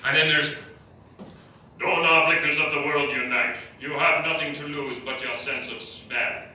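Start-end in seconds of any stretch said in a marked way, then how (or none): 1.8-6.4 mock Karl Marx speech. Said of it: "Karl Marx impersonations".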